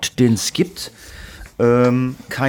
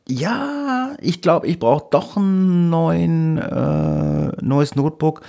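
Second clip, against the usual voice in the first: much higher, slow helpless mum voice; imitating his mother; 6 semitones higher, much slower than usual. Son reads mother's message in a high helpless voice. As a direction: put on a helpless, whiny old mother.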